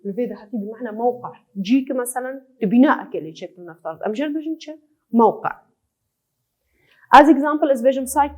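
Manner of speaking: usual speaking voice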